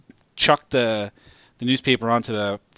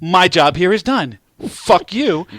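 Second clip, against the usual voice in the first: smug dog; 5 semitones higher, 5 dB louder, slower than usual. Retold or imitated. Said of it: "nodded at me like".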